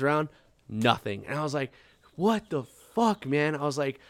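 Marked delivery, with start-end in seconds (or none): 2.2-3.5 incredulous whine. Retold or imitated. Hurt confusion at silence.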